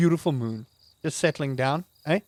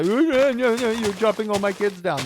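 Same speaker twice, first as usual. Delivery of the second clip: grumpy tree voice; 5 semitones higher than usual. Retold or imitated. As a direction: play the offended oak complaining about his kids. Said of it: "Mister Oak Boy ... and say".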